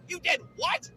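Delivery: high incredulous question; shocked disbelief. Acted. Boy to neighbor about the garbage, shocked disbelief. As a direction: blurt it out, pitch leaping up.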